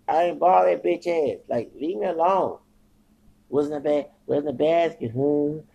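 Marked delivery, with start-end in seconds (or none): 0.1-2.6 loud, higher, angry retort; angry yell. Retold or imitated. Man yelling at three guys harassing him, angry and loud. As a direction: push them off with your voice.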